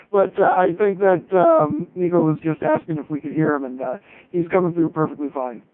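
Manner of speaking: talking through a mouthful of food; words round a bite of food; mouth full. Real, not acted. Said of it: "you wait until I have a mouthful of food".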